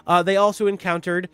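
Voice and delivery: slow storyteller recap; story recap narration. Acted. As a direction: set the scene like a dungeon master.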